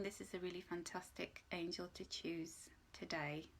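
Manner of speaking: soft whispered reassurance. Real, not acted. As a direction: breathe the words out gently. Gentle card message.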